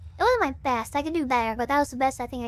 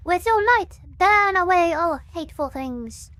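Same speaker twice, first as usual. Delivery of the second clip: louder cultist proclamation; cultist preacher; 2 semitones higher, 5 dB louder than usual. Shown as a demonstration. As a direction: read it like a zealous cultist. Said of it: "I gotta read this like a cultist would".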